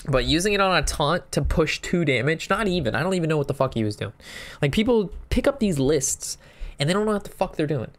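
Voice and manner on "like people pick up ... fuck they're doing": higher, exasperated venting about careless players; exasperated rant. Real, not acted. Streamer ranting to viewers, exasperated. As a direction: vent your frustration at copycat players. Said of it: "Sorry for that little rant there".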